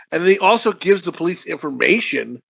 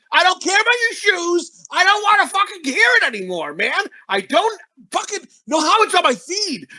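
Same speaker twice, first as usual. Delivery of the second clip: higher-pitched exasperated rant, half shouted; fed-up rant; 6 semitones higher than usual. Real, not acted. Sick of phone ads, a real higher exasperated rant. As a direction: vent about the ads like you're sick to death of them.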